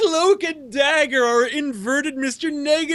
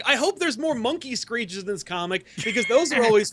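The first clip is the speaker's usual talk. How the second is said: fake excited voice. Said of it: "Sal's fake excited voice".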